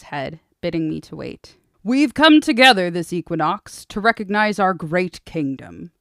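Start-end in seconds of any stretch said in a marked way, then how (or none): 1.8-5.9 calling out. Acted. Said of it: "the High Prince called".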